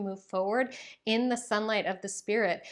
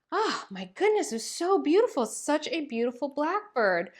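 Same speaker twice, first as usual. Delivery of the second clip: high, louder cry of delight at the blackbird; delighted at a bird; 7 semitones higher, 4 dB louder than usual. Real, not acted. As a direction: gush up high over the beautiful blackbird.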